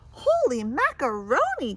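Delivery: loud startled exclamation; cried out. Acted. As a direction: blurt it out in shock. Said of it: "cried Ma-, Madge".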